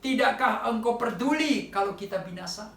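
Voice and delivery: crying out. Retold or imitated. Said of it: "Mereka berkata".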